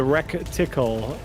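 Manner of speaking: "recticle" with an added k sound before the t; mock mispronunciation. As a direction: say "recticle" as rec-tickle, imitating a slip. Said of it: "You said, you said a".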